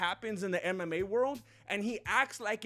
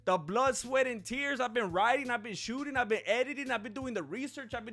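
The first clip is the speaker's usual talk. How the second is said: higher-pitched, piling up the grievances; indignant rant; 4 semitones higher than usual. Acted. Creator protesting his years of work, indignant. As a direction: list your hard work with aggrieved insistence.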